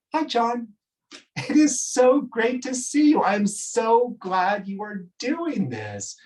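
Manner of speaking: high, sweet, gushing soprano; gushing Jen. Retold or imitated. Jen greeting her director, high and gushing. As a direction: gush sweetly like a flattered singer.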